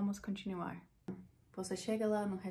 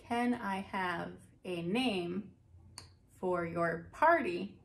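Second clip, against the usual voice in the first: slow hostess question; 3 dB louder, slower than usual. Pretend. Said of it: "se você escuta".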